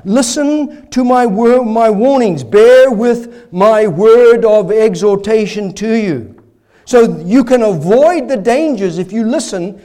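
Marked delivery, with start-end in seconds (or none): 0.0-6.3 voicing the warning. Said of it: "he says".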